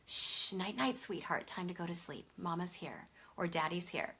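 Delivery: put-on soft, hushed shushing to a baby; calm, tender bedtime hush; soothing sleep whisper. Shown as a demonstration. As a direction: whisper goodnight gently at the crib. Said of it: "you use a brief, consistent, comforting sleep statement".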